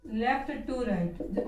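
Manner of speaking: "left to right" stretched very slowly, word by word; teacher spelling out "left to right" slowly for copying; slow dictation. Shown as a demonstration. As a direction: dictate "left to right" at writing speed with pauses. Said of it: "विशेषताओं में आ जाएगा".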